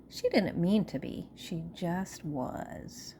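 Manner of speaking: put-on expressive, measured storytelling to children; storyteller with swooping emphasis; picture-book read-aloud. A narrator's reading.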